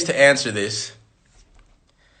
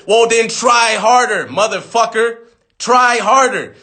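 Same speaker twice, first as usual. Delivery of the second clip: tough-love yell; 5 semitones higher, slower than usual. Acted. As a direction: push him hard, fed up. Tough-love answer to excuses.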